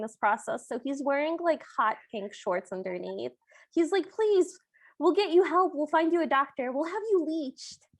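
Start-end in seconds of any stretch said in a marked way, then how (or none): 4.1-7.9 high, urgent retold plea; mock pleading. King trying to stop his son leaving, mock pleading. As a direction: beg him to accept help, pitched up.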